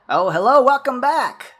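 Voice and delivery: high, loud eager greeting; eager high scientist. Acted. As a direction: greet them like a jittery scientist. GM voices X twenty-two greeting.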